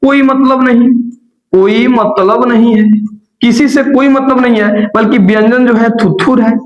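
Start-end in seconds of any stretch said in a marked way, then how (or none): 0.1-4.9 dismissive brush-off. Acted. Vowel acts out snubbing the consonant, haughty and raised. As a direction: wave the other away with disdain. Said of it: "स्वर जो कह रहा है".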